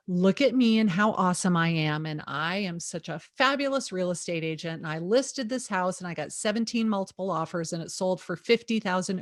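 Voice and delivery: understated mock boast of a show-off agent; sarcastic bragging. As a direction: lightly play a self-satisfied agent, dripping with irony. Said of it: "I'm being super sarcastic".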